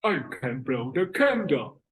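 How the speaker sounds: father talking out of the left side; lopsided-mouthed papa, distorted vowels; mouth twisted left. Acted. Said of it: "His mouth is twisted to the left".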